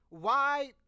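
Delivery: baffled and half-laughing; exasperated disbelief. Retold or imitated. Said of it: "And I'm like".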